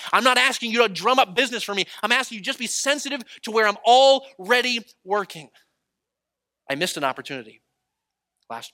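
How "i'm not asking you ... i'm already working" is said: raised, high and loud appeal; voicing God's urgent plea; impassioned preaching. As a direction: press it home from the pulpit, building in force. Preacher voices God, full force.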